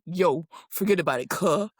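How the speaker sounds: lightly imitated movie tough talk; quick, casual mock brush-off; Paul Walker. Podcaster imitates an actor cutting his friend off, mock brush-off. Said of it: "why are you talking like that".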